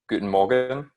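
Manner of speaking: Guten Morgen said slowly and carefully in German; slow German demo. Shown as a demonstration. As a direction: spell out Guten Morgen like a teacher. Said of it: "how I'm pronouncing that".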